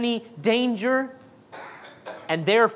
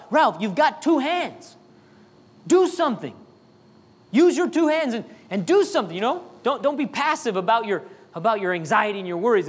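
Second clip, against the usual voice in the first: friend urging Ralph. Acted. Friend prodding anxious Ralph, mildly emphatic. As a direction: urge him to use his hands, lightly voiced.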